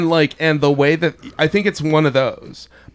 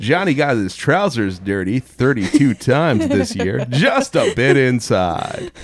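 baseball announcer voice; 2 semitones lower, slower than usual. Pretend. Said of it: "that's the baseball announcer voice".

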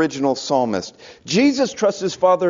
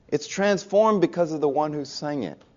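softer, deliberate, "transformed" weighted; soft emphatic; 5 dB quieter than usual. Real, not acted. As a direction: drop the voice to land the point. Key line said softly.

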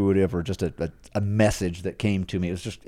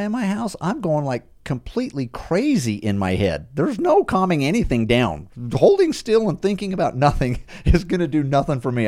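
raised pitch, half-laughing disbelief; exasperated inner rant; 6 semitones higher than usual. Retold or imitated. To himself at the back, a higher-pitched scoffing rant. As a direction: scoff at the idea of sitting still. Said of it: "I was just like".

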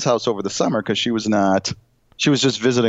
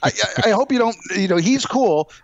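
higher, sheepish apology voice; mock nice guy; 10 semitones higher than usual. Drunk guy apologising to neighbours, lightly hammed sheepish. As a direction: play him overly apologetic.

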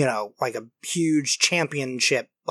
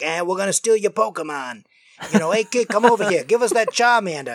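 put-on street-thug lackey, pitched up; 3 semitones higher than usual. Lackey demanding a kid's Pokemon, thug voice. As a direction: shake them down like a cartoon henchman. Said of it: "that was a really good voice".

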